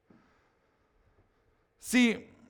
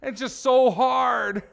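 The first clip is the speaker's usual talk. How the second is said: mildly whining complaint, drawn out on hard; mock whining; 3 semitones higher, 4 dB louder, slower than usual. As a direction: imitate friends moaning, lightly mocking. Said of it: "they start to whine to their friends".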